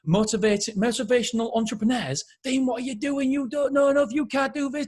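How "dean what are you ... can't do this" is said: higher, doubting inner critic; nagging inner voice. Retold or imitated. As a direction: nag yourself with doubt. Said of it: "If I listened to my mind".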